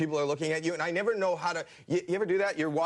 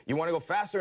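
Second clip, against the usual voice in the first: ride operator mic call; 2 semitones higher than usual. Retold or imitated. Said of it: "And I'd go".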